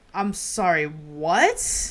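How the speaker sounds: acted, stunned, dumbfounded disbelief with drawn-out what. Retelling own reaction to a scammed customer's story: retelling own stunned reaction. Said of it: "sitting there stunned".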